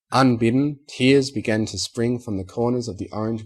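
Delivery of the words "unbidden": ordinary delivery, nothing marked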